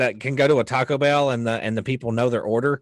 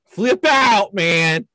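movie quote voice; 7 semitones higher, 6 dB louder, much slower than usual. Retold or imitated. Quoting film line, high loud.

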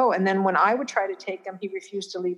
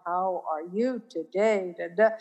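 sing-song voice. Retold or imitated. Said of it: "All his talk became like a sing song".

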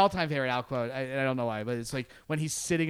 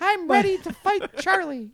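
gung-ho soldier; 13 semitones higher, 5 dB louder than usual. Retold or imitated. Acting out Al in Vietnam.

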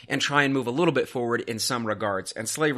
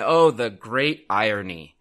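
mock lament; 3 dB louder, slower than usual.

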